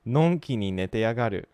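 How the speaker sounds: のんきに寝てやがる closer to the anime line; a cleaner copy of のんきに寝てやがる; better shadowing. Shown as a demonstration. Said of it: "I think that sounds better".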